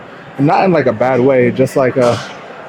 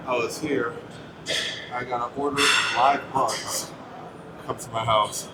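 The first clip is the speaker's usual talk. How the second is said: far from the mic; 13 dB quieter than usual. Real, not acted. Lost audio, says it again.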